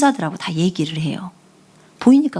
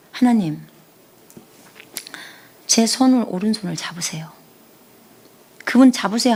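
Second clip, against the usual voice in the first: hushed prayer, dropping to a whisper; prayer demo. Shown as a demonstration. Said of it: "제가 이렇게 해요".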